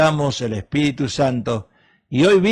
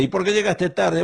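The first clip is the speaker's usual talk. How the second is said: higher, pressing spouse demanding why; demanding question; 6 semitones higher than usual. Acted. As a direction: push the question at him. Acted spouse quarrel, late arrival. (pregunta exigente, más aguda)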